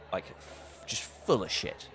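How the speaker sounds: hushed whisper, low and slow. Retold or imitated. Describing a ghost's shoplifting haul in a whisper. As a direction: whisper it like sneaking off with loot. Sneaking out with stolen goods.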